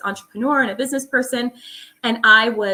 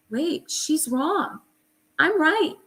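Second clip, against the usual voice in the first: slow, then rising higher in triumph; reading her labs and realizing she was right, higher and slow; sudden realization; 7 semitones higher, slower than usual. Retold or imitated. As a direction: catch the error and claim it. Realizing the lab was misread.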